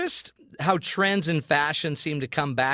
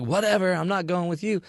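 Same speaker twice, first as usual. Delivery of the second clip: petulant retort; 4 semitones higher than usual. Retold or imitated. Acted quarrel with wife.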